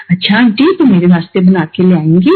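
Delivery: a mild, loving ask of a favour; lovingly. Retold or imitated. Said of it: "इतने प्यार से वो बोलेंगे".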